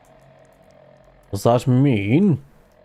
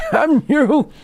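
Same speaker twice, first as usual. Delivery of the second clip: high, laughing mock curse; 14 semitones higher than usual. Real, not acted. Cursing the game, laughing.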